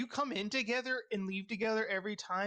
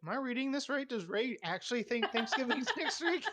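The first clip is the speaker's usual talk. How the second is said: higher-pitched disbelief, breaking into a laugh; amused, puzzled questioning pitched up; incredulous; 5 semitones higher than usual. Retold or imitated. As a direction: retell your own baffled double-take. Quoting own confused reaction to a text.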